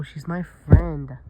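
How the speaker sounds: slow and loud on my friend; loud insistent claim. Acted. Mango insists to Simon, loud and slow. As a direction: stake the claim firmly.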